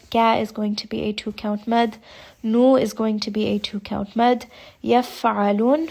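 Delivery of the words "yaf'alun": Yaf'alun slow, air escaping on the fa; breathy fa. Shown as a demonstration. Teacher demonstrating hams, slowly. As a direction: let breath leak out on the f. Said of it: "a little bit of air that's escaping".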